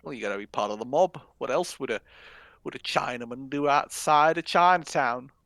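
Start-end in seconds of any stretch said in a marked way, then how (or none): 1.4-5.3 put-on a loud, ham southern accent from a New Yorker. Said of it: "That was a southern accent".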